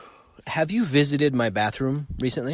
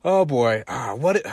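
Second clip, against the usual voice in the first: higher and louder, laughing nervously; flustered freak-out; 6 semitones higher, 5 dB louder than usual. Retold or imitated. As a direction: play yourself panicking after a crash. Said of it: "I should have just faced it and said".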